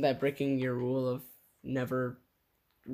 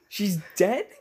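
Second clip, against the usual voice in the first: much higher, louder disbelief then laugh; shocked high gasp; 9 semitones higher, 7 dB louder than usual. Pretend. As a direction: hero hearing Jasmine died, shocked and louder. Hero shocked Jasmine died.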